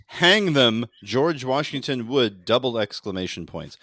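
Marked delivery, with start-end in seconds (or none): 0.1-2.5 loud mock proclamation; shouted internet post, slowed for effect; all-caps quote. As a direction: read it like it's in all caps. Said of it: "No, all caps".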